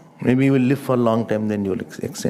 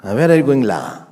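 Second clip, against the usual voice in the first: light Singapore accent, dropping on the final "la". Shown as a demonstration. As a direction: imitate a Singaporean with a tagged-on "la". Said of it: "Singapore ex-, accent is different".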